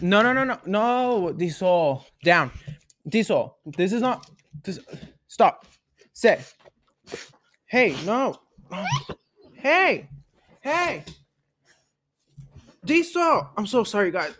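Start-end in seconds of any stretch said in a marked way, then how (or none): 0.0-4.8 high, firm no no no; scolding the dog. Real, not acted. 5.3-13.5 sharp high dog commands. Real, not acted.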